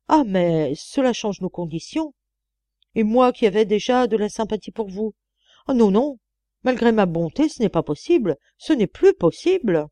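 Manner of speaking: emphatic, put-upon refusal with swooping pitch; indignant old employer backing out; aggrieved old mistress. Acted. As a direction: protest as if deeply wronged.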